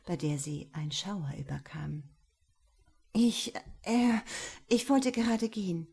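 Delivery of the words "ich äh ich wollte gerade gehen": higher, hurried brush-off with a stumble; trying to sound curt. Acted. Laura trying to get rid of Jerome, halting curtness. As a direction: push him away with a curt tone, half-failing. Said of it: "versuchte sie möglichst schroff".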